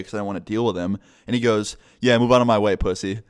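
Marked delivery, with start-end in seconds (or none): 2.0-3.2 louder jeer, dropping on the last word; mock bully taunt. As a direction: throw out a bully's jab. Bully sneers at him in passing.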